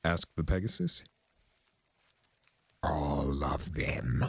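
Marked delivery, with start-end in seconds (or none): 2.8-4.2 growl. A narrator's reading. Discord answering the clerk, slow growl. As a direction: growl it out slowly. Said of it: "growled Discord".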